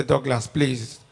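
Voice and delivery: low, soft, slowed plea; gently mock-plead like the woman on her knees; imitated begging. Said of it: "dey beg me, say".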